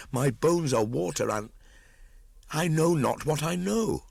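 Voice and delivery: put-on a feverish boy spilling out his confusion; young Mowgli distressed. A narrator's reading. Boy confessing his restlessness to the council, high and strained.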